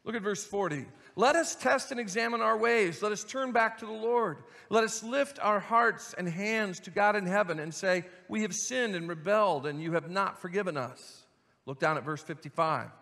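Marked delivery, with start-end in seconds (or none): 1.2-11.2 earnest, measured reading of a lament; scripture reading. Acted. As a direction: read the verses as a heartfelt cry. Reads verses forty onward.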